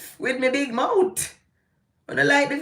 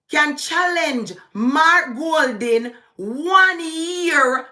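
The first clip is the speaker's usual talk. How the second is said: very slow, loud, higher, word by word; proper manner; 7 semitones higher, 3 dB louder, slower than usual. Shown as a demonstration. Vlogger lecturing Jamaicans on the constitution, slow emphatic. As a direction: spell it out slowly so they can't miss it. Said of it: "Let me say it in that proper manner".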